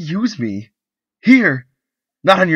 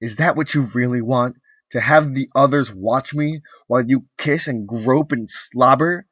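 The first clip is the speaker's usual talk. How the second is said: much higher and louder, building to screams; furious tirade; 9 semitones higher, 13 dB louder than usual. Acted. Wife screaming her drunken husband out of the room, rising fury. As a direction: drive him out in rage.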